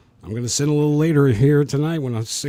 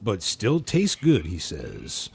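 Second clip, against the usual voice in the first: ad pitch; 2 semitones higher, slower than usual. Acted. Mock ad pitch.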